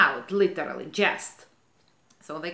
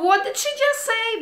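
indignant outburst; 14 semitones higher than usual. Real, not acted. Confronting the insulting passenger.

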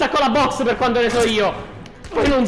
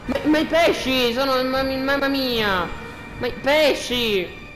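mock lament; 2 semitones higher, slower than usual. Mourning the dead fish.

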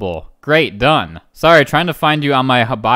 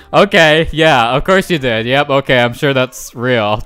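sarcastic disbelief; 4 dB louder than usual. Acted. Reacting to a silly excuse.

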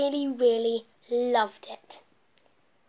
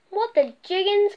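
gasped; 6 semitones higher, 4 dB louder than usual. Acted. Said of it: "gasped all the little bees".

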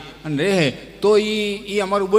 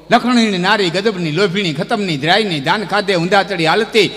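slow, punched-out comic folk verse with a steady beat; rhythmic verse recitation; 3 semitones higher, 3 dB louder, slower than usual. Acted. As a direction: chant it phrase by phrase, building in force. (લયબદ્ધ, જોરદાર કવિતા પઠન)

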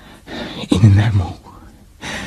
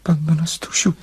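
soft whispered name, softer; 5 semitones higher, 5 dB quieter, faster than usual. Acted. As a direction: breathe her name, overcome. Overwhelmed lover's reply.

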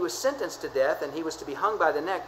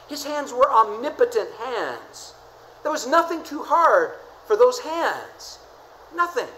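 preaching climax; 6 semitones higher, 5 dB louder, slower than usual. Real, not acted. Preacher's climax on Jesus' hands.

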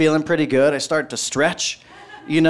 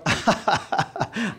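acted laugh; 5 semitones higher, 5 dB quieter than usual. Acted laugh at being arrested.

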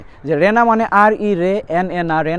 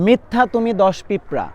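memory trick. Shown as a demonstration. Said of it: "এভাবে মনে রাখে সবাই".

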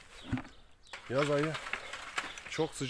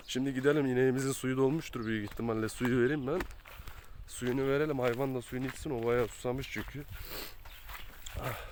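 sick, sniffling; 3 dB quieter than usual. Real, not acted. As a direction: sniffly voice with a cold. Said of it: "burnumu çekip duruyorum".

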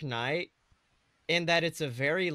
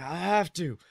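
mock whiny Will; 4 semitones higher, 6 dB louder than usual. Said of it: "He was just like".

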